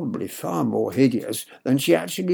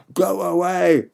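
put-on child shouting go away; loud, higher childish yell; shouted; 6 semitones higher, 4 dB louder, slower than usual. A narrator's reading. Boy shouting at the bad mother. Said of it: "I shouted".

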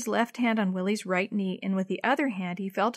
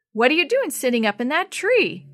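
higher, louder joking question; 6 semitones higher, 6 dB louder than usual. A narrator's reading. Rescuer teasing the boy in the tree, joking. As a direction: tease the boy kindly. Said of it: "another man joked".

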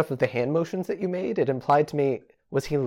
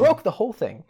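mock outrage; 8 semitones higher than usual. Acted scolding continues.

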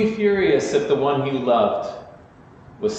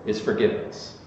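hushed; 3 semitones lower, 6 dB quieter than usual. Real, not acted. Sermon climax, key word.

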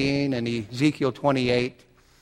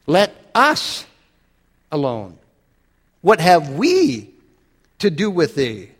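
demons crying out; 3 dB louder, slower than usual. Retold or imitated. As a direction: voice the demons' plea, drawn out. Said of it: "Here's what the demons say".

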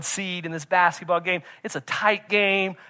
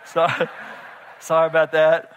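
sheepish apology; 5 dB louder than usual. Retold or imitated. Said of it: "I was like".

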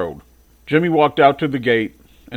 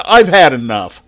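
fed-up brother; 9 dB louder than usual. Acted. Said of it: "he said".

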